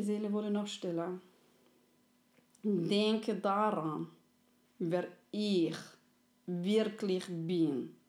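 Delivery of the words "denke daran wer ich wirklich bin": very slow, solemn plea; friendly soul. Acted. Friendly soul asks to be remembered, very slow. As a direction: drag each word out, begging to be remembered.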